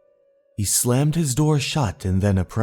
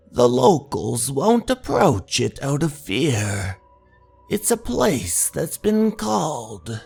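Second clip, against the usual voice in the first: higher, drawn-out legend-telling voice; mysterious local stranger; 5 semitones higher than usual. Acted. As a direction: tell the local legend with eerie, lifted intonation. Stranger behind narrator tells local legend.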